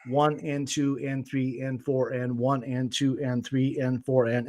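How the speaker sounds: steady, equal beats on "one and two and three and four and"; even four-four count. Shown as a demonstration. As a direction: count low and evenly, "and" between the numbers. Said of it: "this happens also in four four".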